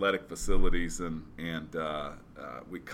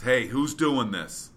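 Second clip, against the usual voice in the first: higher, slow, pushing challenge; coach's challenge; 5 semitones higher, 4 dB louder, slower than usual. Retold or imitated. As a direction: call it out like a drill coach pressing you. Trainer challenging on stairs.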